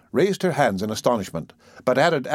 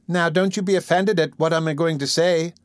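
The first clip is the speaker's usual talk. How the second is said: sweet coaxing; 7 semitones higher than usual. A narrator's reading. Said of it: "with captivating sweetness".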